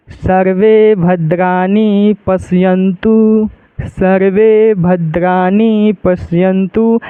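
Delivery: very slow mantra recitation. Shown as a demonstration. Teacher reciting the shloka to show students. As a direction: draw out each word of the shloka. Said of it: "एक बार हम पढ़ के आप लोगों को दिखा देते हैं".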